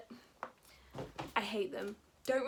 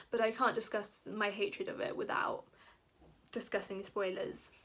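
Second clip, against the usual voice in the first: ordinary talk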